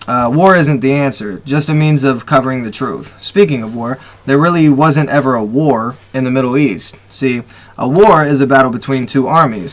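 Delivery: impassioned read-aloud of a manifesto; reading with feeling. Shown as a demonstration. Host reading a listener's post for the people, with feeling. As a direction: read it out with emotion, leaning on key words. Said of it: "I'll read it with feeling and emotion".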